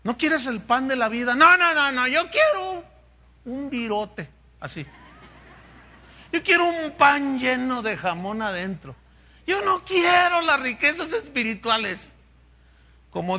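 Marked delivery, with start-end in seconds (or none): 1.3-4.3 put-on high, loud childish refusal; whiny refusal. Preacher mocks a believer refusing the bread of life, whiny. 6.3-12.1 higher, shouted demand; greedy demand. Retold or imitated. Preacher mocks a greedy believer demanding material things, shouted.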